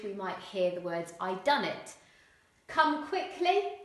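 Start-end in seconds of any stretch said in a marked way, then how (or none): 1.2-1.9 "I done it" said casually, louder; non-standard English. Shown as a demonstration. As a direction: drop into casual dialect for "I done it". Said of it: "if you use non-standard English".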